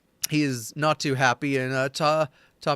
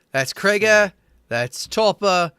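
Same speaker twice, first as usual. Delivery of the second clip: chatty NPC introduction; 3 dB louder than usual. Acted. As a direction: introduce the crew like an old regular. GM voices NPC introducing the men.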